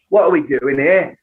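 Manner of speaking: broad Cockney accent, as in Snatch; over-the-top Cockney. Shown as a demonstration. Showing what not to do, exaggerated Cockney accent. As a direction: ham up the Cockney. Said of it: "We're not doing Snatch".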